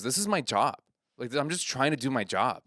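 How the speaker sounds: a touch of hurt protest; mildly upset. Retold or imitated. Comedian scolding a drunk heckler, mildly upset. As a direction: plead your case, mildly upset. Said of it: "my friend gets upset".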